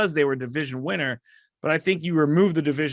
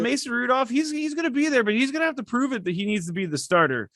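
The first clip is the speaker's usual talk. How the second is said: mimicking the coach; 8 semitones higher than usual. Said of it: "Basically, he goes".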